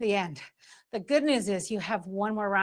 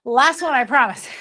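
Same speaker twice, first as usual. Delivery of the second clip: loud; 7 dB louder than usual. Real, not acted. Urging class near end.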